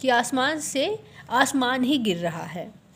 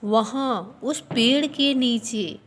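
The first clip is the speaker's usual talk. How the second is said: fearful; 4 dB louder, slower than usual. Acted. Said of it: "डरते हुए कहा".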